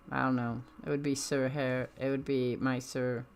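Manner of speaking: ordinary delivery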